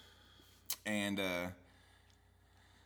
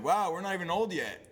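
laughing quip; 4 semitones higher than usual. Retold or imitated. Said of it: "I was like".

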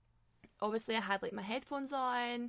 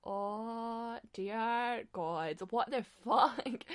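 stunned disbelief; much slower than usual. Retold or imitated. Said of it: "I'm just like".

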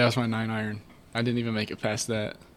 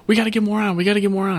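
high, loud nagging insistence; hammed-up boss hurry; imitating pushy boss; 9 semitones higher, 6 dB louder, faster than usual. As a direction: urge it like a frantic boss. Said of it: "she was like".

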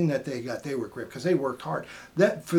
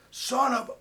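mock upset outburst; 10 semitones higher, 3 dB louder than usual. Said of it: "I could tell he was upset".

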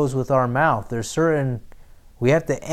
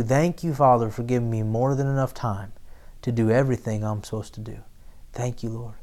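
grateful prayer; 3 semitones lower, 4 dB quieter, faster than usual. Retold or imitated. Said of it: "I come back to".

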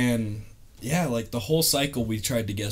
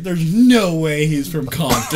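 laughing disbelief; 6 semitones higher, 11 dB louder than usual. Retold or imitated. Recruits doubting the announcement.

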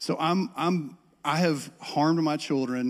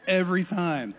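mock pessimist fan; 4 semitones higher than usual. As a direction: play the hopeless fan who expects the worst. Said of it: "orphan spirit sports fan".

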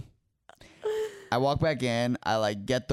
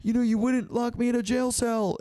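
whiny crying plea; 12 semitones higher than usual. Retold or imitated. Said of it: "I start crying".

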